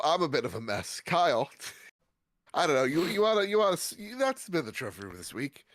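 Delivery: blocked nose, stuffy voice. Real, not acted. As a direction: talk through a stuffy nose. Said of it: "I'm all stuffy. I can't speak".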